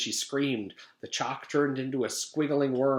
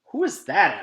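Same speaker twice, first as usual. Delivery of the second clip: startled question; 5 semitones higher, 8 dB louder than usual. Acted. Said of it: "asked Missus Jewls".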